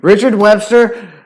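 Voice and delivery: loud, high hammed-up banishment; mock outrage. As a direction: proclaim the ban in playful outrage, drawing it out. Mock-outraged call to ban a man.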